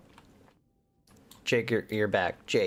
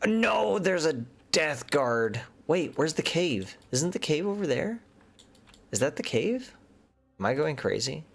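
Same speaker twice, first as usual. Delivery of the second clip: panicky; 6 semitones higher than usual. Real, not acted. Panicked searching for the cave.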